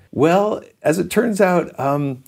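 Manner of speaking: high, hesitant opening easing down; retold sheepish pitch, embarrassed to be asking; cringing. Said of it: "I'm cringing the whole time".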